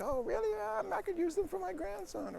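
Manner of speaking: high-pitched, put-on old lady voice. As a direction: imitate a sweet-talked old lady, way up high. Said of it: "an old lady".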